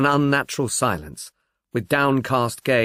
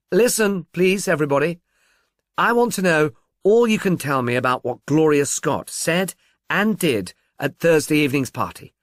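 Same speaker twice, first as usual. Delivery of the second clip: raised voice; 4 semitones higher than usual. Acted. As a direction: call out to the whole company. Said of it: "Humbleby raised his voice".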